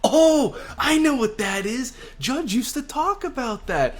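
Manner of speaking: high, thrilled villain voice breaking into a laugh; excited mad scientist. Acted. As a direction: gush like a giddy mad scientist. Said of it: "He's just getting excited".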